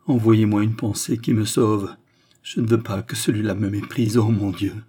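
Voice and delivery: simple, earnest plea to heaven; vigorous prayer. A narrator's reading. Queen begging God for a saving thought, vigorous prayer. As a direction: pray with restrained desperation. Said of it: "cette simple et vigoureuse prière".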